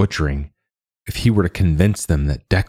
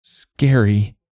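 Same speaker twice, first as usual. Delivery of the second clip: piped up; 4 semitones higher than usual. A narrator's reading. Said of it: "Damien piped up".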